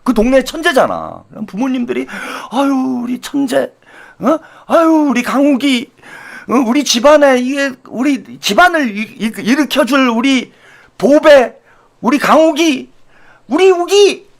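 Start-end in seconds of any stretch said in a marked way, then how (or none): 2.5-14.3 doting parent. Retold or imitated. Voicing doting parents in story.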